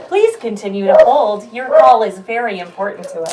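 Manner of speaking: recorded hold announcement; customer service voice. Pretend. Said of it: "turn on my customer service voice".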